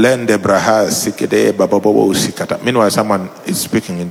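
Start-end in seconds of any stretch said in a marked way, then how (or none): 0.0-2.6 low, even praying in tongues; seated prayer demo. Shown as a demonstration. Teacher showing how to sit and pray, low and even. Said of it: "you can also sit and pray".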